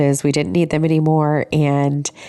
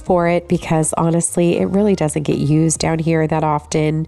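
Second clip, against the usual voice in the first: stuffy, blocked-nose voice; nasal voice. Real, not acted. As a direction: talk through a sinus cold. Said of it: "apologize for my nasally voice".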